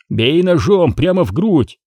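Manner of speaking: urgent shouted command; shouting. Acted. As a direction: yell it to your partner. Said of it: "крикнул Крис".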